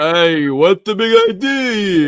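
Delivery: put-on loud, high Boston mobster accent. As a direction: bark it like a Boston thug. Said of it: "You need to say that with a Boston accent".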